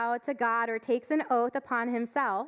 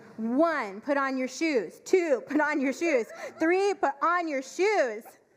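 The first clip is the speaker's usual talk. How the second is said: mock exasperated, stern, angry tone; 3 semitones higher than usual. A parent reenacts counting at their kids with a raised voice: mock-angry counting. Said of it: "raise my voice and start the angry counting".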